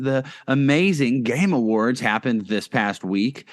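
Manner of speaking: mock-impressed, lightly sarcastic; feigned enthusiasm for something you don't care about. Real, not acted. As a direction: say it with understated sarcasm. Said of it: "I'm being sarcastic".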